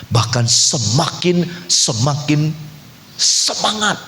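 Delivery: mounting fervour; building enthusiasm. Real, not acted. Acting out growing fervour.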